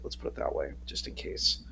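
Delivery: hushed, covering yourself; conspiratorial whisper; whispered aside. Real, not acted. Sly aside about accent.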